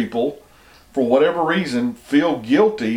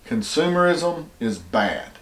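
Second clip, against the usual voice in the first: put-on soft, airy Valley Girl sneer; 5 dB quieter than usual. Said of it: "put it in the Valley Girl voice or the hippie voice".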